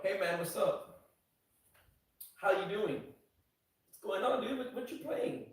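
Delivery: mock a chill viewer saying hi; imitating a viewer. Streamer mocks viewers greeting each other. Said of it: "And they're like".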